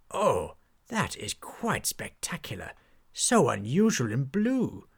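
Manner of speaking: refined enthusiast's voice; genteel knight. Acted. Knight admiring the poppy with the captain, refined. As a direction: charm the pirate with fellow enthusiasm.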